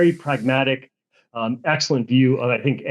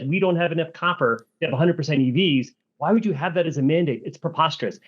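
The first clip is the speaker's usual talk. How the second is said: blunt indignant quote; 3 semitones higher than usual. Retold or imitated. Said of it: "in a much more friendly, statesman-like manner than what I just did".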